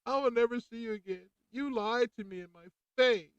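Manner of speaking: high, loud, betrayed cry; hurt outburst. Retold or imitated. Patient telling off the doctor, hurt and loud. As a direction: let the hurt burst out loud. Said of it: "I kinda cried a little bit".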